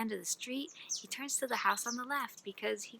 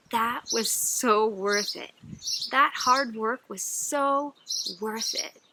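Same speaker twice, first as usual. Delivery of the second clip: savoring; 3 dB louder, slower than usual. Acted. Hungry man savors reward.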